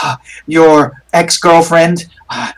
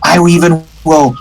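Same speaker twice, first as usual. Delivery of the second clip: tempting spirit. Acted. Spirit tempting Rudolph with power, lightly voiced. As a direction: lure him with promises, lightly voiced.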